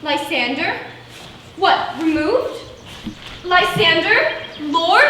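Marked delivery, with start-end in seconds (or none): 0.0-0.8 puzzled questioning name, rising at the end; uncertain, searching query; tentative call. Acted. Checking if companion is there. 3.4-4.4 louder searching call, rising at the end; anxious raised-voice question. Acted. Calling after missing companion.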